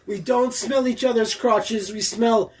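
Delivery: slow put-on Kiwi accent; drawn-out New Zealand accent. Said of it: "stop with the accent".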